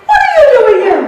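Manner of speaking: high, loud startled surgeon; shocked surgeon. Retold or imitated. Surgeon startled to find his patient at work, loud and high. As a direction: burst out in alarm at seeing her back.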